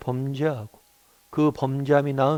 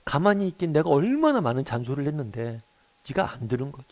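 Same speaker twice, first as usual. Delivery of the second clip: mild disbelief, swooping up on the key word; imitated exasperated mother. Mother answering her son's blame, mildly exasperated imitation. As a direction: retort like a lightly exasperated mum. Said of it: "어이가 없어서 그런 얘기를 했대요".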